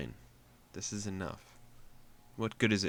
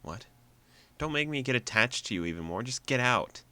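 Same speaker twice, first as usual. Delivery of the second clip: tearful outburst; 4 semitones higher, 5 dB louder than usual. Acted. Pushing Jisoo away, tearful outburst.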